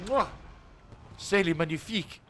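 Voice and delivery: put-on chef's kiss in a French accent; hammy French chef praising his dish. Chef's kiss after a great shot.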